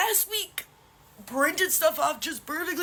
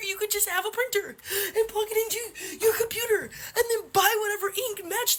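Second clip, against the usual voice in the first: crying laugh; 2 semitones higher than usual. Real, not acted. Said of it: "I may be crying right now".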